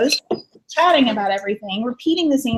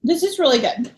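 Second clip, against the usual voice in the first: whispered, almost no voice. Real, not acted. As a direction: murmur it like a secret. Repeats line, whispered then plain.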